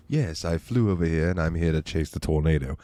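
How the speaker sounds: low mock-villain voice; Bond villain. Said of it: "Gotcha, Bond villain style".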